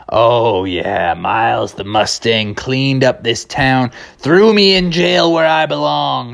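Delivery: slow jailbird recollection; lightly voiced cartoon outlaw; Criminal Kevin. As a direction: drawl it like a convict, rising late. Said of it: "Criminal Kevin".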